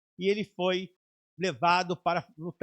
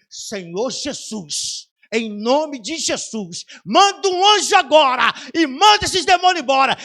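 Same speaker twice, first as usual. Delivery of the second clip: building prayer shout; 5 semitones higher, 10 dB louder than usual. Retold or imitated. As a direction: cry out to Jesus, rising to full force. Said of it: "eu falei assim".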